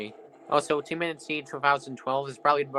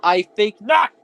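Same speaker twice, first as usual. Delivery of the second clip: loud, high villain-style proclamation; dramatic declaration; 4 semitones higher, 13 dB louder, slower than usual. Pretend. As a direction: announce it like a movie villain. Mock dramatic answer to own question.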